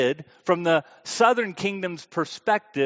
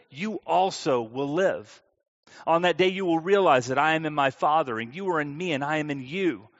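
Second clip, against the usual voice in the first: scripture reading. Acted. Pastor reading John to the congregation, measured and reverent.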